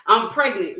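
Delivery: mildly nasty re-enactment; understated nasty announcement; nasty attitude. Retold or imitated. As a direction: replay it with a touch of attitude. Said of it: "Like nasty".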